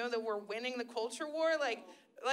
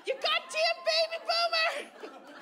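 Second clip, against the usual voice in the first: mock rant; 13 semitones higher than usual. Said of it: "I was like".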